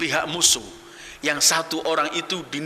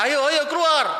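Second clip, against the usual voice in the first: high-pitched imitated battle challenge; shouted challenge; 12 semitones higher, 4 dB louder than usual. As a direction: call them out like an arrogant warrior. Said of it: "Sambil teriak". (teriakan menantang)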